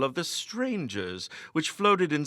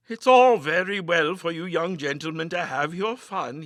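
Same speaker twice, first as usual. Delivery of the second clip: put-on old landlord, indulgent and a little louder; 5 semitones higher, 6 dB louder than usual. A narrator's reading. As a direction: humour the young gentlemen kindly, like an innkeeper. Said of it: "he said indulgently".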